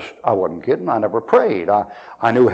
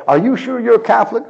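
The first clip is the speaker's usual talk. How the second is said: mock doubt, pitched up high; retold sceptic's high-pitched query; incredulous question; 8 semitones higher than usual. Puzzled listener questions the preacher's faith, mock incredulous.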